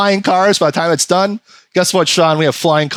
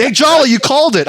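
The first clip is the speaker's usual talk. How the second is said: high-pitched mock congratulation; impressed friends; 8 semitones higher than usual. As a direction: imitate excited friends crediting someone else. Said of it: "And then they went".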